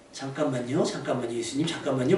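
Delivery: low, soft hold-on plea; mock stalling. Preacher imagining the beggar stalling Jesus, hesitant. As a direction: act out someone caught unprepared.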